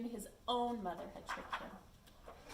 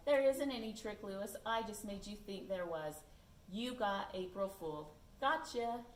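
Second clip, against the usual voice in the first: smiling gotcha. Acted. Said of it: "Gilbert smiled and said".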